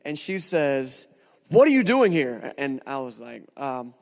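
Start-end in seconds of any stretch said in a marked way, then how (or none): 1.5-2.5 put-on louder, hostile drunken challenge; imitating an irritated drunk answering her door; drunk angry neighbour. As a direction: snap it like a tipsy neighbour at the door. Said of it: "very angry and very inebriated".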